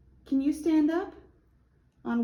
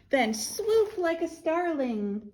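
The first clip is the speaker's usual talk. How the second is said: put-on reading to children; 6 semitones higher, slower than usual. A narrator's reading. Reads picture book to children.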